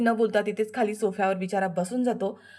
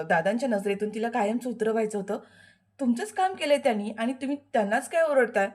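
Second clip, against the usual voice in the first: higher, sharp talking-back; defiant retort; 4 semitones higher than usual. Acted. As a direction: defend her husband pointedly. Dhanashri retorts to Shilpa. (शिल्पाला उलट उत्तर देणारी धनश्री, उंच आवाजात)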